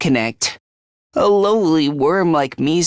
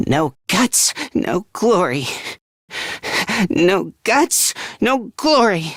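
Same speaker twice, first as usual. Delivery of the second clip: hesitant motto, growing more insistent; nervous self-encouragement; 3 semitones higher than usual. Acted. Frightened boy repeats no guts, no glory to himself, nervously building resolve. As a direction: psych yourself up despite the fear.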